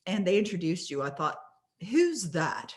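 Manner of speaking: a light imitated British accent, admittedly not done well. Woman at breakfast recalling the event, in a mock British accent. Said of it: "she said it with a British accent".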